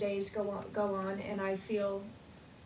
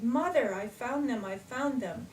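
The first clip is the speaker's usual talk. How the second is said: excited call to mother, easing off; retold excitement; 3 semitones higher, 3 dB louder than usual. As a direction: start high and loud on the name, then settle. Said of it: "how excited I am".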